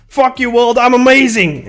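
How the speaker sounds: high-pitched mock yell, held back in volume. Streamer acting out a bedtime yell out the window, high mock yell. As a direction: pretend to yell it out to the world. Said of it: "I would just yell out".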